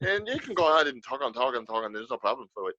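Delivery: light, chatty Irish brogue; easygoing Irish accent, light in the throat. Shown as a demonstration. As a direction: rattle on in a calm Irish lilt. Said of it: "a little bit of a fastness".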